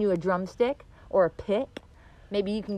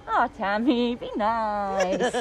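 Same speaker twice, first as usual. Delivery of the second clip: gentle self-reminder; much slower than usual. Shown as a demonstration. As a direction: coax "Oh, Tammy, be nice" kindly to yourself. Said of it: "sometimes I can say".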